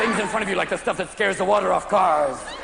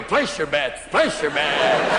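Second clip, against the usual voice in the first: lightly voiced croupier, lower, drawing out the last call; roulette croupier; 7 semitones lower, much slower than usual. Spinning room calls out like roulette, lightly voiced croupier. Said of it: "spinning like a roulette wheel".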